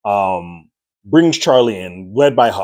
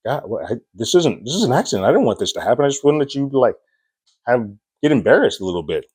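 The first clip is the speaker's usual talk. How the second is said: mild panic; 5 semitones higher, faster than usual. Retold or imitated. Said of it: "she starts freaking out".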